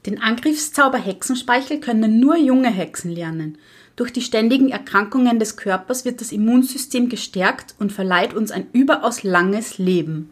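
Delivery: a lightly voiced stern old witch lecturing; strict witch teacher. (Lehrerinnenhexe, leicht gespielt, streng belehrend)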